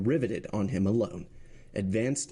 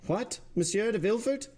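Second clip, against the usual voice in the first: much higher, sharp outcry; president cries out; 12 semitones higher than usual. Acted. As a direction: cry out in disbelief, higher. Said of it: "cried the president".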